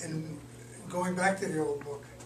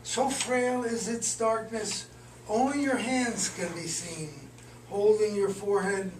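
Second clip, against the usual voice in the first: deliberate recital, phrase by phrase; poem reading. Acted. Poet reads another recent poem, deliberate recital. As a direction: start each phrase firmly, let its end settle.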